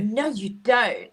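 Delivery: put-on slow, drawn-out mean-girl scoff; disgusted disbelief. Mocking his death metal taste, disgusted. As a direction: imitate her open disgust, dragging the words. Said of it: "her disgust at it".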